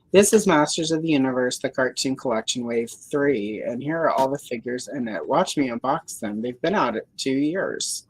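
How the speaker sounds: deadpan sarcastic unboxing pitch; mock-serious product intro. Shown as a demonstration. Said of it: "I'm being sarcastic the way I'm doing that".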